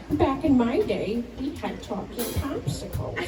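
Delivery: put-on crazy old-timer. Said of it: "I'm gonna sound like a crazy person".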